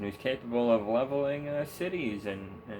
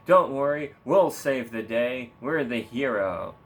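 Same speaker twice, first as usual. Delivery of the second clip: mock reassuring leader; 5 dB louder than usual. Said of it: "American leadership loves to say".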